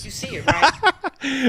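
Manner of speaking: loud taunt. Real, not acted. Showing the shirt off.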